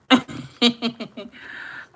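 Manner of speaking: loud high cackle; high laugh. Real, not acted. To viewers after the announcement, a loud high laugh.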